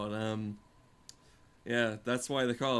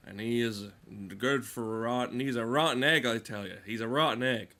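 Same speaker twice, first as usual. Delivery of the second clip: country gossip. Retold or imitated. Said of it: "You know those stories you have of".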